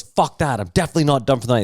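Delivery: defiant rapper. Retold or imitated. Rapper refuses to leave stage.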